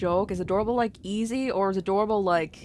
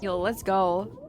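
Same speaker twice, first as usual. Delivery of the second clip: imitating the ghost; much slower than usual. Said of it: "Is it bad that I talk like this ghost?".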